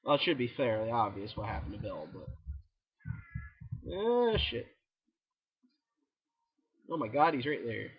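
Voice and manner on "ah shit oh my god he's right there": panicking gamer. Real, not acted. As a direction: panic as the tank hits. Tank appears, he panics.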